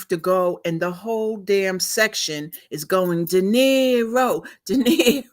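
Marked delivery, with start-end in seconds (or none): 3.2-5.2 calling out a name. Retold or imitated. Crowd calling the dog's name.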